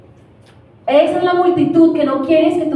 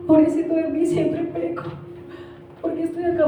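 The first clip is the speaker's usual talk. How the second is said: lightly mocking poor-me voice, pitched up; autocompasión fingida; 4 semitones higher, 5 dB quieter than usual. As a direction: play a mild self-pitying victim. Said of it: "era esa victimización". (voz aguda de pobrecito, en broma)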